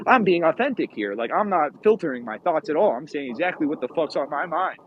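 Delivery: firm, earnest bluntness; serious Yankee candour. Acted. Speaker acting the unfiltered Yankee mindset, serious and blunt. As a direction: voice a dead-serious Yankee, lightly acted. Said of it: "serious, uh, presentation of themselves".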